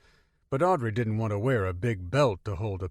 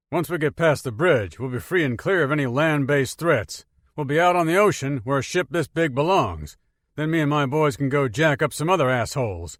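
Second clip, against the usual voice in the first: marine sergeant voice; 4 semitones higher, 6 dB louder than usual. Acted.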